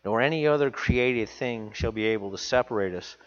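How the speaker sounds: reading the Bible aloud from the pulpit; scripture reading. Acted. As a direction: read the verse out to the congregation.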